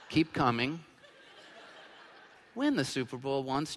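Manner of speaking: speaks through a laugh. Real, not acted. Pastor laughing at his own Lions joke to the congregation. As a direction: chuckle while apologizing.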